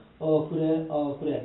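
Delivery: offhand voice dropped very low, slow. Acting out how one talks to someone seen as lower: imitating a lowered, offhand voice. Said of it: "목소리가 착 낮아지면서".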